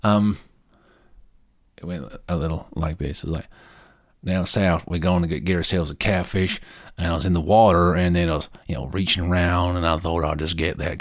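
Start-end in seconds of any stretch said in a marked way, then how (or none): 4.2-6.6 put-on barely there deep South American accent; tentative hint of a deep South American accent. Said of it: "certainly not a deep South American accent".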